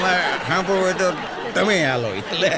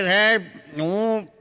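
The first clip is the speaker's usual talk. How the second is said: put-on drunk; 5 semitones higher, slower than usual. Drunk answering police.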